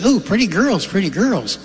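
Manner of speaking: high, swooping singsong parrot. Acted. Parrot greets the lady's daughters, high singsong parrot voice. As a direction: do a talking parrot admiring someone, pitched high. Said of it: "the parrot says".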